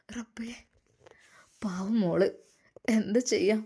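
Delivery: soft, grieving words barely above a breath; a quiet mock sob over bad news; weeping softly. Ashi Usthad grieving over Hadi's accident, soft and tearful. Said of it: "പൊട്ടി പൊട്ടി കരഞ്ഞു".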